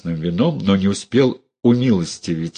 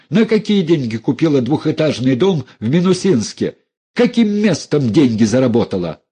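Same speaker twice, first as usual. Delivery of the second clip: raised, biting tirade; loud, scornful tirade at the relative; angry accusation; 5 semitones higher, 3 dB louder than usual. Acted. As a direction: lash out at her, voice high. Dunya attacks the relatives.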